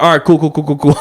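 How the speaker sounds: laughing bro impression. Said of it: "He's like".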